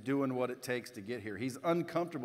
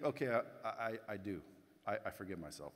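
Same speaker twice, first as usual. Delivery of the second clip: softer, hesitant mumbled self-talk; timid mumble; 4 semitones lower, 6 dB quieter than usual. Shown as a demonstration. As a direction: barely say it, unsure of yourself. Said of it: "No, no, no. Say it out loud".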